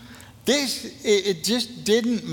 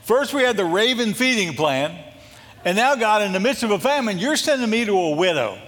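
incredulous complaint; 4 semitones higher than usual. Retold or imitated. Elijah complaining to God about the widow plan, incredulous. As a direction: protest to God in mock disbelief. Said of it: "Elijah had to be going".

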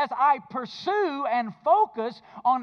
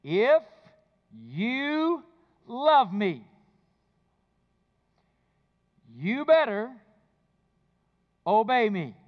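stern demand; 2 semitones lower, slower than usual. Retold or imitated. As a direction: make love sound like an order you must obey. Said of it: "Here's the way I heard that verse".

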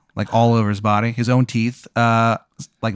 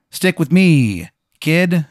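higher, slow, coaxing mob boss; smooth mobster pitch; 6 semitones higher, slower than usual. Acted. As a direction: draw it out like a slick recruiter. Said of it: "He goes".

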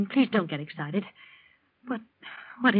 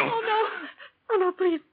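alarmed cry; 9 semitones higher, 4 dB quieter, much slower than usual. Acted. Wife cries out in alarm.

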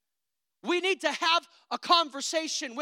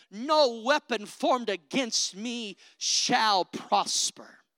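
slow faith declaration; 3 dB louder, slower than usual. Pretend. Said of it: "the faith voice says".

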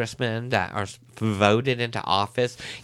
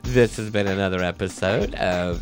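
slow show sign-off voice; outro announcer read; slower than usual. Acted. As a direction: read the podcast outro slowly.

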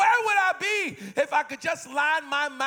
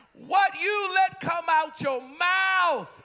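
higher, slow, drawn-out call; emphatic preaching; 5 semitones higher, 3 dB louder, slower than usual. Real, not acted. Preacher pressing the congregation, slow emphatic call. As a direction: lean hard on every word.

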